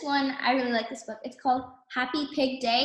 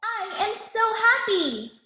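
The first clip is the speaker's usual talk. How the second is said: a higher, brighter-voiced excited pig calling her friend; playful piggy voice, a bit higher; excited Piggie; 6 semitones higher than usual. A narrator's reading. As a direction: call out to Gerald with glee. Piggie voiced in picture book.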